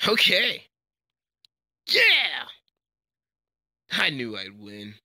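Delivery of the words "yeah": high, triumphant yell; victory cheer. Acted. Fighter who has just won, high triumphant shout. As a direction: cheer it out at full pitch.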